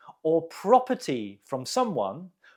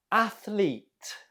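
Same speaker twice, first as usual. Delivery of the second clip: "Athlete" stressed on ATH, higher pitch; first-syllable stress; 4 semitones higher than usual. Shown as a demonstration. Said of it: "The stress is on the first syllable".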